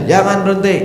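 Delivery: high, loud mock cry; hammed-up high shriek; mock shout. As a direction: shriek Jangan, berhenti in pretend alarm. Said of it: "saya teriak aja dah".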